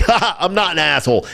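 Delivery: laughing the denial off; imitating Biden's laugh. Biden answering a heckler, a mock laughing denial. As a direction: brush it off with a chuckle. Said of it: "he's like".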